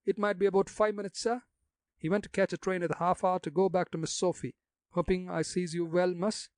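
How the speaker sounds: put-on gossipy old gravedigger in broad country dialect. Jacques answers.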